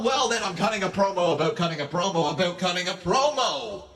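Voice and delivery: C-Pain voice. Pretend. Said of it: "cut a promo in the C-Pain voice".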